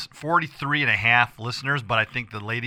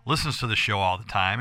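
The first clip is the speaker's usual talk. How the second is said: rough, hoarse voice; 3 semitones lower than usual. Real, not acted. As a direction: force words through a raw throat. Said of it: "my voice is hoarse".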